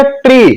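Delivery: ट्री with a long "ee". Shown as a demonstration. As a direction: hold the vowel in ट्री. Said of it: "long sound में". (ट्री में लंबी ई)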